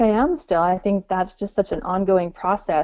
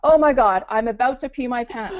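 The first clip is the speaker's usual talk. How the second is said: higher, louder and thrilled, building; giddy excited lady; 4 semitones higher, 3 dB louder than usual. Retold or imitated. Founder imitating a lady thrilled by clickable attendance, giddy. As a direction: imitate a customer too excited to contain herself. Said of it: "She's like".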